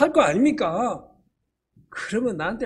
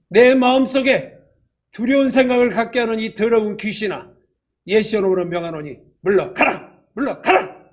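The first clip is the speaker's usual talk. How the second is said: commanding rebuke; 3 dB louder than usual. Shown as a demonstration. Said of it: "어떻게 하라고 그랬죠".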